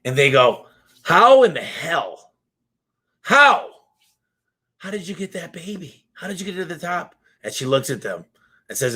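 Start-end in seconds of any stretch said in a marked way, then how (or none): 1.0-3.7 slow then high, loud How; astonished hunters crying out; stunned disbelief. Retold or imitated. Hunters stunned by mother's return. 4.8-7.2 much softer, higher, amazed question; awed hush. Retold or imitated. Hunters asking the mother, awed.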